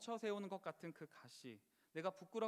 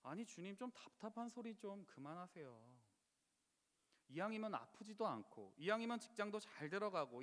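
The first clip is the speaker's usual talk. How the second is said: exasperated plea. Retold or imitated. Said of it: "속이 터질 것 같습니다".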